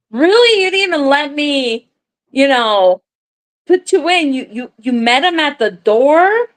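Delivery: high, incredulous questioning, acting shocked; mock incredulous. Pretending to be amazed to her husband, high and incredulous. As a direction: pitch it high like she can't believe it.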